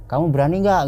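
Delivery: high, loud imitated boss; questioning boss. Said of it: "bos saya ngomong".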